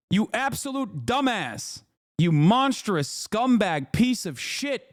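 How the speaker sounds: slow, sing-song contempt; drawn-out insult. Real, not acted. Streamer insulting a chatter, slow drawn contempt. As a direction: stretch each insult out slowly.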